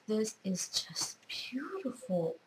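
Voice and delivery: breathless hushed whisper, slowed right down; awed whisper. Real, not acted. Thanking a friend for sewing gifts, in an awed whisper. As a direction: whisper it as if the gift might break.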